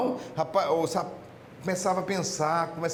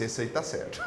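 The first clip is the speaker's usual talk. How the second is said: lightly voiced Jesus; 8 semitones lower, 6 dB quieter than usual.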